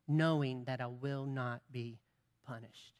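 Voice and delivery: dropping to a near hush on punished; quiet emphatic repeat. Real, not acted. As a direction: let the last word fade away softly.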